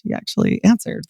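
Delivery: excited whisper. Retold or imitated. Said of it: "super excited 'cause I was like".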